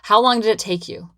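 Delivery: mock impatient client pressing how long; a lightly voiced impatient client; eager questioning clients. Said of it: "they're like".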